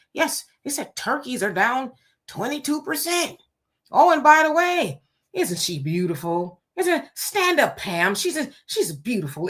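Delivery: mock presidential ramble, pitch leaping then dropping; Donald Trump. Host mocks a president straying from the teleprompter, light impression. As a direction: imitate a politician wandering off script into gushing asides. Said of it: "'cause he don't read the teleprompter".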